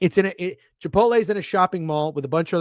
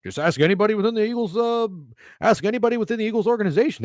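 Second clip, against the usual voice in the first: mocking know-it-all. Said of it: "And now we're all of a sudden".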